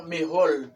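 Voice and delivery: "mejor" said as "mejol", ending in L; "mejor" mispronounced as me-HOL; learner's L for R. Retold or imitated. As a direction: imitate the mistake, "mejor" with final L. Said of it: "pero no es mejor".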